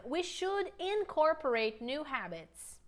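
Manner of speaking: slow, careful repeat; deliberate teacher pacing; slow model line. Shown as a demonstration. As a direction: say it again slowly for them. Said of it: "One more time".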